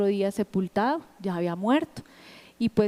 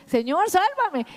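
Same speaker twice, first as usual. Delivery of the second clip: higher, slow begging cry of a dying man; desperate plea; 8 semitones higher, slower than usual. Retold or imitated. Preacher voicing a dying sinner's last plea, higher and slow. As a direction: plead for your life, drawn out and high.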